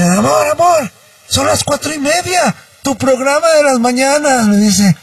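lightly voiced startled wife; imitating alarmed wife. Wife wakes husband at dawn in a mild mock panic. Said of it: "pero asustadísima".

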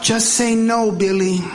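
cheerful after-school special; mock white mom. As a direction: white parent advising Billy, mock cheerful. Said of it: "flyers on the refrigerator".

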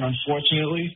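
Brooklyn-accented delivery; New York accent. Real, not acted. Jets fan calling a sports show, New York accent. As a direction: say it like a native New Yorker. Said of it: "the way you said "unfortunately".

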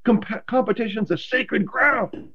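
high, fervent "competition's a sacred ground"; intense teammate. Retold or imitated. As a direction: preach it like a fired-up veteran. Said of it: "He goes".

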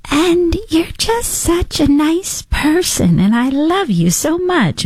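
high, slow gushing interviewer voice; Jamie Kern impression. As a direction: gush sweetly and slowly like a fawning host. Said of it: "she talks like this".

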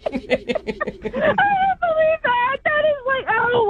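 real high, tearful laughing; slow, high voice cracking up with relief; relieved disbelief. Real, not acted. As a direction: squeal it through laughter, close to crying. Relief on learning of prank.

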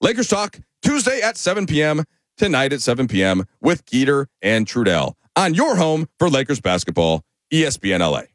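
big hammy radio promo voice; over-the-top promo read. Shown as a demonstration. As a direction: sell it like a booming station liner. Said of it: "Felt over the top".

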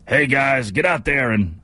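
a hint of a movie-star coach impression; lightly voiced pep talk, impression slipping off course; Al Pacino. Host voicing the hologram coach at halftime, accidental Pacino. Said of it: "I don't know why he became Al Pacino".

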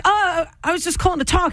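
high, timid imitation of Tom; mock sheepish Tom. The speaker mimicking Tom's awkward call, high and sheepish. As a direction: play him meek and hopeful. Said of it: "And you were like".

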